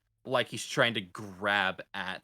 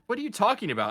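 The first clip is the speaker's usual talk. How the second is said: confused sailor; 10 semitones higher, much faster than usual. Acted.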